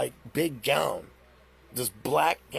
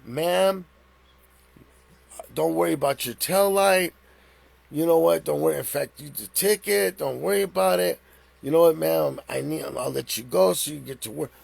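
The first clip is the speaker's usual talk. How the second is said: suddenly placating; 4 dB louder than usual. Retold or imitated. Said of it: "He switched".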